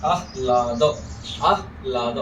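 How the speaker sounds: आह्लाद split as आह-लाद, the ह closing the first part; half ह. Shown as a demonstration. Teacher explains the half ह in आह्लाद, careful demo. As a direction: breathe out a half ह before ला in आह्लाद. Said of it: "ह आधा है".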